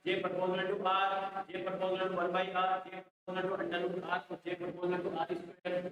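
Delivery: slow, sing-song listing of the choices; dictating options in a measured chant; slow reading of options. Real, not acted. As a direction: read each option out slowly for the class. Teacher reads answer options aloud.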